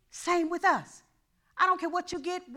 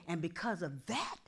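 hushed promise; 7 semitones lower, 7 dB quieter, faster than usual. Acted. God's promise to Solomon.

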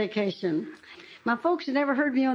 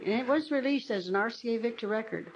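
usual speaking voice

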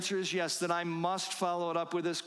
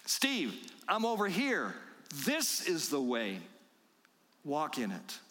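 calling out to a stray; slower than usual. Acted. Shepherd calling wandering Steve back, slow patient call. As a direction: call him back from up ahead.

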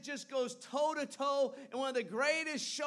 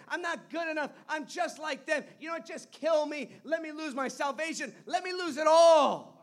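despairing outburst; 3 semitones higher, 5 dB louder than usual. Retold or imitated. Preacher voicing Elijah begging to die, despair swelling to a loud cry.

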